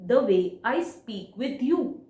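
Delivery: "The way I speak with you" slowly, in separate chunks; phrase broken by pauses. Shown as a demonstration. Teacher demonstrating a pause to students, "The way I speak with you" slow and broken up. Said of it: "And I took a pause".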